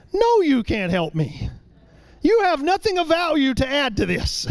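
put-on impatient father brushing off his toddler, rising to a mild shout; dismissive dad. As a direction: scold the child: you're useless here. Dad bluntly refusing his son.

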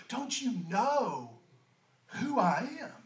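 slow, soft "Don't you know who I am?"; quietly sincere, slow, no boasting; gentle revealing. Acted. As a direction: reveal it tenderly, no pride. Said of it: "He's actually just revealing something to her".

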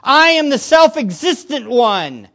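loud, slow preacher's proclamation; divine declaration. Acted. Jesus revealing his deity, proclaiming emphatically. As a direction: proclaim it with stretched, weighty words. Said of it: "He is saying".

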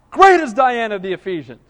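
mock crowd cry. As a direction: cry it out like a crowd, partly held back. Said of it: "all with one voice cried out".

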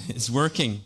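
chuckling through the words; amused laugh as he says it. Real, not acted. Kid wants to buy own gift.

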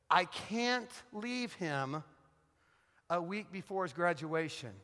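drawn-out, mildly mournful plea; retold troubled wife. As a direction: draw it out like an upset wife, lightly acted. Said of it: "she's all troubled and she's crying".

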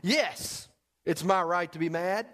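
high, petulant protest; a cranky Jonah insisting he has every right to be mad; grumpy Jonah. Acted. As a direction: sulk like a wronged prophet. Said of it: "I can hear him saying this".

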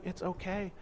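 put-on calm a crying child softly; a parent soothing over a broken stick; gentle reassurance. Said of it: "And he's going".

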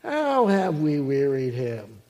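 slow, drawn-out mock question; challenging attitude. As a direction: stretch it into an affronted question. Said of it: "here's the attitude".

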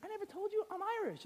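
high, quick, soft wife impression; hurried, hushed protest, hammed up; wife's voice. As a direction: put on a small high voice for the wife. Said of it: "She's like".

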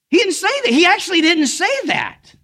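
very high, insistent preaching; emphatic protest. Real, not acted. Preacher correcting the misquote to the congregation, emphatic protest. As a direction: pitch it way up in protest.

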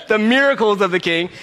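"miracles" in standard form, showing off the fix; corrected pronunciation. Shown as a demonstration. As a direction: punch "miracles" with a careful MEER first syllable. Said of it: "I'm getting better".

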